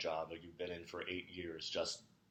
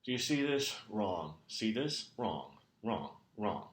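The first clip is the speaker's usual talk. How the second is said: exasperated fault-finding; 2 semitones higher, slower than usual. Acted. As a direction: point out each mistake with a curt falling "wrong". Boss angrily points out errors.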